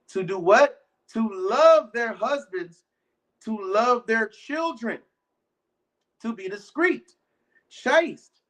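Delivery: slow, solemn reading of the verse; scripture reading. Acted. Preacher reads Titus to the congregation, slow and solemn. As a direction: read it out deliberately like holy writ.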